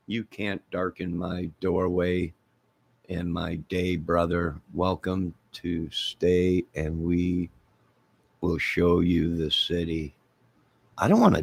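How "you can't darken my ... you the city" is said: soft, slow, even-toned recital; measured quiet reading of a verse; slow recitation. Acted. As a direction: recite it softly, drawing out the words. Recites quoted welcome verse.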